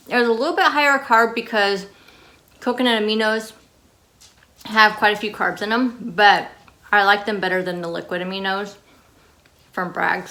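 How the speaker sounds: talking through a mouthful of chocolate; chewing while talking; mouth full. Real, not acted. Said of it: "sorry, I'm eating with my mouth full".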